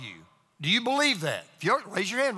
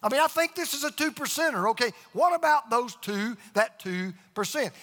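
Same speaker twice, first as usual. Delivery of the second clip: higher, fretful questioning voice pitched up; mock worried listener; 5 semitones higher than usual. Pastor voicing an anxious congregant's objection, higher and fretful. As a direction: play the doubting churchgoer, pitched higher. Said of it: "You say".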